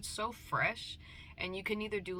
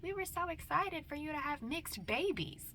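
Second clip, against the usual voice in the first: mock shock; 9 semitones higher than usual. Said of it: "they were like".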